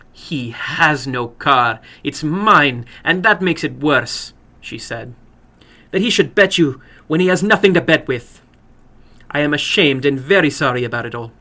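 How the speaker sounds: indignant then ashamed; ashamed older woman. Acted. Woman voiced in story.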